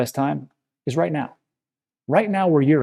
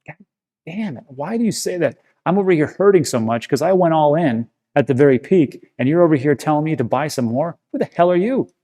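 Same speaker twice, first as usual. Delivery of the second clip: retold exasperation; 3 semitones higher than usual. Hurting investor talking back at YouTubers, retold exasperated rant. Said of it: "I used to get so pissed off".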